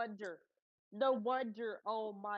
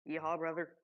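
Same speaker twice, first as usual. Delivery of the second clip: put-on Texan accent; 3 semitones lower than usual. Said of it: "you already are hearing a Texan".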